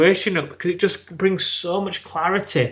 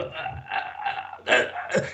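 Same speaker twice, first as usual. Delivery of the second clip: stuck for words; 8 dB quieter, much slower than usual. Retold or imitated. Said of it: "I just couldn't get it out".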